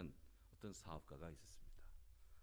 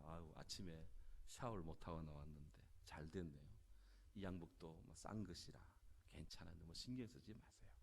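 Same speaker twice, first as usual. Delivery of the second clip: lightly acted, easygoing and softer; mild reassurance; 4 dB quieter than usual. Negotiator reassures waiter after wine spill, lightly voiced easygoing reassurance. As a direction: gently wave off the mishap.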